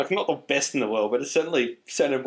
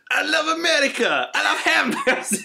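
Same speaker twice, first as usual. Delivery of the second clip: high, laughing mock Russian; hammy Russian drifting Italian; Russian accent; 13 semitones higher, 3 dB louder than usual. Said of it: "We went from Russian to Mario".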